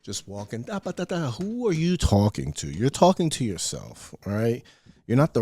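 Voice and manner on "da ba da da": mock chatter. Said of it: "I see people doing this".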